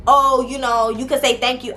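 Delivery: snippy, sarcastic thank-you; mock-snotty jab at the sister; with attitude. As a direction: throw it at her with a bit of sass. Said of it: "I didn't say it with no attitude".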